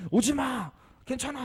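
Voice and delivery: high, loud barking command; a trainer yelling at an owner for safety. Retold or imitated. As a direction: snap the order out. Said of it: "반말로 확 윽박질르는".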